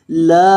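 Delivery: ला drawn out for three counts; long laam. Shown as a demonstration. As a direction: stretch ला long and even. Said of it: "लाम को आपने तीन अलिफ के बराबर लंबा करके". (ला को तीन अलिफ तक लंबा खींचकर)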